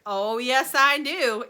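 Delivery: loud, bright answer; gleeful yes. A narrator's reading. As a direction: answer with relish. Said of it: "answered Mister Wonka".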